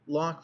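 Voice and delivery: "lock", rock begun with an L. A narrator's reading. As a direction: start rock on L instead of R, "lock". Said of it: "could rarely sound the letter R, but used L".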